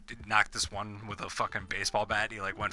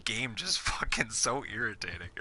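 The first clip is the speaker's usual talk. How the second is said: exasperated outburst; 5 semitones higher than usual. Retold or imitated. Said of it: "I was just like".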